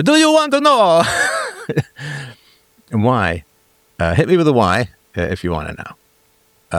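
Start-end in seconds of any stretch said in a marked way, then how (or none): 0.0-3.4 very high-pitched mock question; comic high voice. Streamer teasing viewers with the question, silly high voice. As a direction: shoot the pitch way up, hammed-up.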